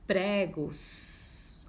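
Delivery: pregos with the final S drawn out; stretched word. Shown as a demonstration. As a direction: hold the S of pregos a beat longer. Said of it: "Olha o finalzinho".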